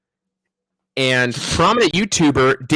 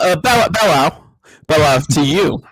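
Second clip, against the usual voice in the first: wolf voice; 2 semitones higher than usual. Pretend. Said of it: "wolf voice".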